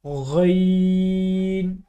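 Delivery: गैन drawn slowly, thick and full; slow heavy गैन; heavy ghain. Shown as a demonstration. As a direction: give गैन a heavy throaty sound. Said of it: "गैन को मोटी आवाज़ में पढ़ेंगे".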